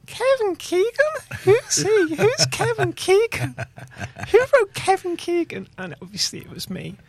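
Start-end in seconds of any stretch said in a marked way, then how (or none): 0.1-5.7 put-on loud, high puzzled American accent; hammed-up baffled American accent. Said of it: "all the Americans were going".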